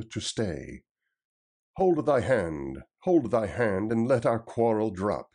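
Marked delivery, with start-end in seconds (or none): 1.8-5.3 crying out. Acted. Robin to the tanner, crying out to stop the fight. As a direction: call out to halt the fight. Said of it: "he cried".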